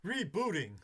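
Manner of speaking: flat robotic rebooting. Retold or imitated. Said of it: "make her voice sound like a robot voice".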